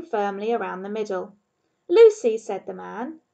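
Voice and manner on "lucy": louder, higher call; bearded man addressing his dog. Acted.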